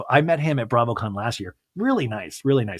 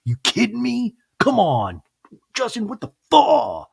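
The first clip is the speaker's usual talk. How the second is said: exasperated rant. Retold or imitated. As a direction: drop the sweetness and rant at him. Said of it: "she even drops the baby voice".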